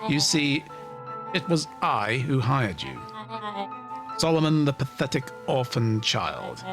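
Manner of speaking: smug villain monologue. Acted. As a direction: savour the reveal like a mastermind.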